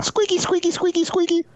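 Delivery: very high squeaky balloon noises. Shown as a demonstration. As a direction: squeak out like a twisted balloon animal. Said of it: "that's me doing the balloon".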